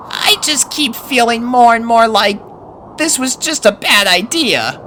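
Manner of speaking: high colt voice, doubts creeping in; worried young colt. Acted. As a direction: admit the trip feels wrong. Snips confiding his doubts.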